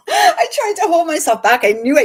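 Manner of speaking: high, loud laugh while speaking; laughing through tears. Real, not acted. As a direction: laugh it out, overcome.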